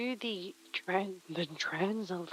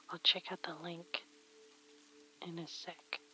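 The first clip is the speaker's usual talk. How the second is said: whispering; 3 semitones lower, 12 dB quieter than usual. Real, not acted. Muttering aside.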